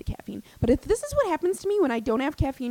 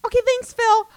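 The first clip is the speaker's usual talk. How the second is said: sarcastic thanks; 13 semitones higher, 8 dB louder than usual. Real, not acted. Sarcastic reaction.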